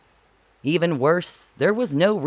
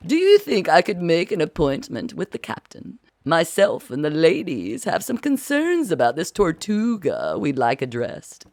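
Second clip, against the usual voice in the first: a hint of a prim grand lady; politely demanding, just a touch haughty; lightly voiced Duchess. Duchess asking Marcy for a meeting, lightly prim.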